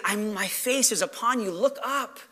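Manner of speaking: softly spoken reassurance; mildly tender, quiet encouragement; loving. Acted. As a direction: gently invite them to lift their head. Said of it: "but also in a loving way".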